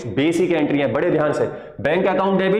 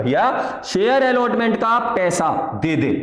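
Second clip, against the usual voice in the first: very calmly asking; 2 semitones higher than usual. Shown as a demonstration. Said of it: "बहुत आराम से".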